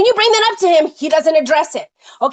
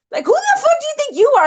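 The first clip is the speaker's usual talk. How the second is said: furious; 10 semitones higher, faster than usual. Real, not acted. Angry rant at streamer.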